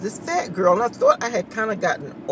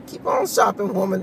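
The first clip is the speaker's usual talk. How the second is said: teasing. Retold or imitated. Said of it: "I was messing with her".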